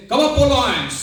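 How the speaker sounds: ringing, high, loud summons; rousing call. Retold or imitated. Swamiji summoning his listeners to rise, rousing call. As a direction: call them up like a preacher. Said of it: "So Swamiji says".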